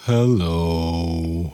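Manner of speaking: mopey gloomy voice. Greeting listeners when asked to say hi, gloomy like Eeyore. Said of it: "Are you Eeyore today?".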